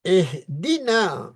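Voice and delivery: اہدنا with the final ā drawn long; slow recitation of اہدنا; long final vowel. Shown as a demonstration. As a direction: stretch the نا in اہدنا. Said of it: "نا جو الگ پڑھے تو اہدنا ہوگا لمبا".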